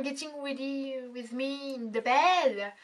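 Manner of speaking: put-on playful English accent, last word drawn out; hammed-up attempt at an English accent. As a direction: show off your English accent, French-tinged. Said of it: "Admirez mon accent anglais".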